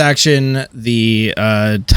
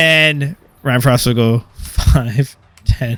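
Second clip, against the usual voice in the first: usual speaking voice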